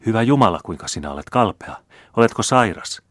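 a sister's alarmed cry. Acted. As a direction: gasp out in shock at his pale face. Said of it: "kysyi paronitar".

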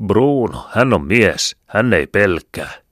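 loud, high hail from the comrades; comrades cheering. Acted. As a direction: call it out proudly, loud and high.

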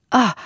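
short, sharp "ah" of pain; pained cry. A narrator's reading. Lea hitting her head on the cupboard, crying out. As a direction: cry out briefly as if struck. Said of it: "huudahti hän".

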